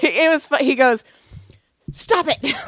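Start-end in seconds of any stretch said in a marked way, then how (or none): 1.9-2.5 high put-on plea; mock protest. Guilty friend telling her to stop, in mock protest. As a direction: imitate a friend's protest, pitched well up.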